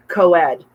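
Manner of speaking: co-ed spoken slowly, each syllable clear. Shown as a demonstration. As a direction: stretch out co-ed to correct a mishearing. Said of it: "that's not what he said".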